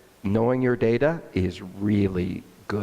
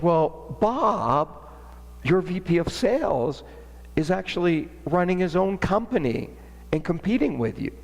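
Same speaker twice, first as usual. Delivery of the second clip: imitating the marketing lady; 7 semitones higher than usual. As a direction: play the sympathetic ex-employee in a higher voice.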